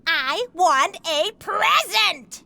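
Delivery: slow drawn-out whine; whiny demand. Acted. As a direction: whine it like a spoiled kid. Child whines for a present.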